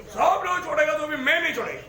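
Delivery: Peter का अंश नहीं; mock self-confidence. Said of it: "क्योंकि उसको अपने ऊपर".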